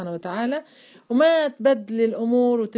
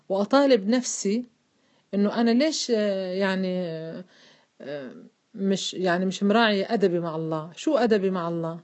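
usual speaking voice

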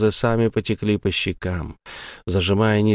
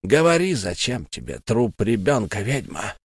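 menacing ghost. Acted. Ghost Tom demands answers from the witch. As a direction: interrogate her coldly.

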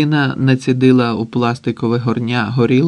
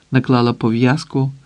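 ordinary delivery

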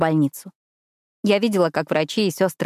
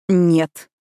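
growled; 5 dB louder than usual. Acted. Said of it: "прорычал Ронан".

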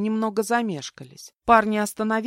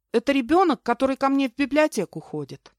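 high, raised, anxious voice; hurried explaining; 8 semitones higher, 6 dB louder than usual. A narrator's reading. Captive explaining the child to her kidnapper, hurriedly. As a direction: explain anxiously to head off trouble. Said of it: "торопливо пояснила я".

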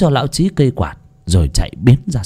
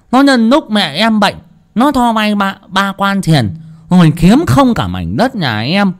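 angry ranting curse; 8 semitones higher than usual. Acted. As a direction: vent fury at the cheating landlord. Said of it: "tức chí mà chửi đồng".

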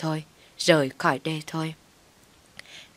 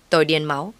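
ordinary delivery

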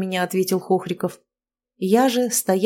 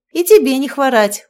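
bright-pitched, louder hello through a smile; smiling greeting; 6 semitones higher, 8 dB louder than usual. A narrator's reading. Woman returns a neighbour girl's greeting, smiling. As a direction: greet her back with a smile. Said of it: "улыбнулась ей".

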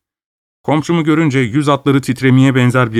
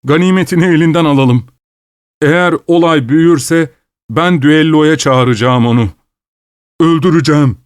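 put-on raised, higher old man's vow; angry old man; 5 semitones higher, 4 dB louder than usual. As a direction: threaten a duel in fury. Old man vows a duel.

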